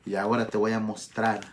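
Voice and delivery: low, soft, measured rebuke; subdued reproof. Acted. Preacher voices Jesus confronting Saul, subdued reproof. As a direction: speak gravely and softly as the Lord.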